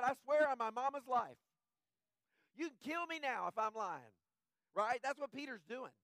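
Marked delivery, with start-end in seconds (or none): 0.0-4.1 louder, higher mock swearing; mock oath. Preacher imitates someone swearing on their life, loudly. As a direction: ham up a desperate oath.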